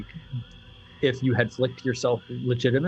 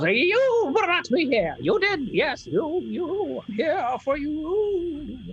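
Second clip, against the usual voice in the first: very high, drawn-out crone voice; tiny old lady, slow and insistent; much slower than usual. Acted. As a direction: lean into every word, slowly, like a prophecy. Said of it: "she goes".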